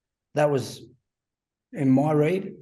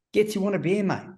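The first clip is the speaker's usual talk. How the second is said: higher, teasing coach offering a beer; imitating the coach; 6 semitones higher than usual. Coach tempting the young player at his birthday, mock friendly. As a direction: put on the coach's voice, baiting him with a beer.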